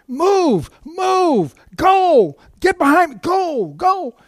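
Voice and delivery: high, loud urgent yelling. Retold or imitated. Preacher yelling at the boy to move. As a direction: shout at the boy to get behind you. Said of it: "and I'm yelling".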